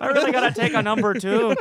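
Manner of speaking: high squeaky comic voice; high silly voice. Pretend. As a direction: pitch it way up, playful. Continuing the silly accent bit.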